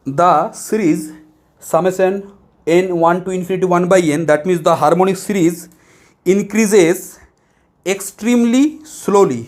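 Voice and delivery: very slow dictation of the English text; reading from the book. Shown as a demonstration. Teacher to students, reading the textbook line very slowly. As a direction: read it out word by word, very slowly. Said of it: "मैं एकदम पूरा ये पढ़ रहा हूँ".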